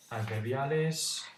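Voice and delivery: drawn out, slow and deliberate; slow title read; slow heading. Shown as a demonstration. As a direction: announce the word slowly like a heading.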